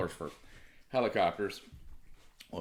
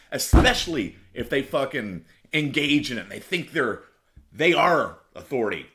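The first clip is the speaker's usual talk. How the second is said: louder, heated rant against authority; angry rant; 3 semitones higher, 3 dB louder than usual. Real, not acted. Ranting to listeners against cops and judges, loud and heated. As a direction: vent it hard, building to louder. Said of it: "Rant over".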